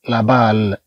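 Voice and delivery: لا بال with a voiced, light b; b in بال, no puff of air. Shown as a demonstration. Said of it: "مخففة".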